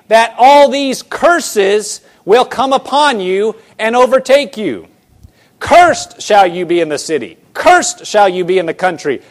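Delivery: emphatic, cadenced Bible recitation; solemn preacher's reading; scripture reading. Acted. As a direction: read out the curses, landing on each opening word. Reads scripture aloud.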